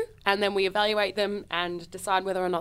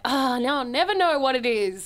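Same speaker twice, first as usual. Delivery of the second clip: annoyed; 3 semitones higher than usual. Acted. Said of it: "feel annoyed when I miss them".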